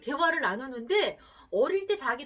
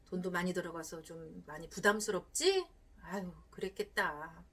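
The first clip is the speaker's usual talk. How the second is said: empathetic reply; 2 semitones lower than usual. Shown as a demonstration. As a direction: comfort her gently, slowing down. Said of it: "어떻게 공감해 줄까요?".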